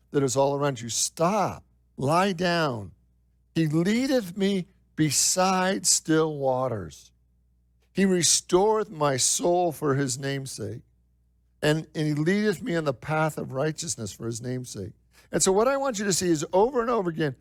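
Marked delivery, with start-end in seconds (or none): 3.5-14.9 scripture reading. Acted. Reads Psalm 23 on.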